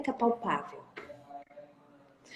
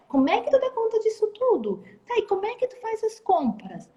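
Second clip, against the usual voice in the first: bright, eager questions, higher on the exclamations; mock enthusiasm; 4 semitones higher than usual. Shown as a demonstration. Saleswoman showing a client eager interest, mock enthusiastic. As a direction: sound thrilled by everything the client says.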